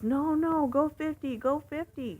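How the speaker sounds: high, loud imitated urging; frustrated. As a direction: mimic a frustrated passenger pushing the driver. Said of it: "gets frustrated, and he says".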